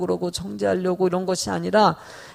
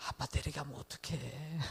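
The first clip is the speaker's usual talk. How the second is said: much softer, hushed apology; a father soothing his son after hitting him; tender regret; 5 semitones lower, 18 dB quieter than usual. Retold or imitated. Father softly comforts his son after hitting him. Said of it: "또 가가지고".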